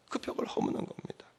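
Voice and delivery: "그 벽을 허무는 겁니다" repeated as a soft whisper; whispered echo. Shown as a demonstration. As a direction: drop to a hush on the echo. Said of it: "repeated take". (속삭이듯 되풀이)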